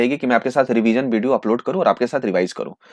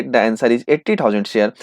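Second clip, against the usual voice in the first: very slow, drawn out; slow reveal; 5 semitones lower, much slower than usual. Acted. Teacher reveals the allotted shares to the class, slowly. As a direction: stretch out the answer word by word.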